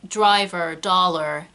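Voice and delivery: rhotic American "driver", "dollar"; American accent. Shown as a demonstration. Teacher giving example words with R, American accent. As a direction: sound the final R in "driver" and "dollar", American style. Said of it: "in an American accent".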